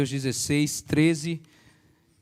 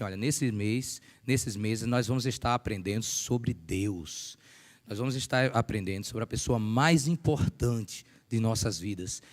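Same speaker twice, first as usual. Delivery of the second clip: gentle family talk; 3 semitones lower, 4 dB quieter than usual. Retold or imitated. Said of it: "fala assim".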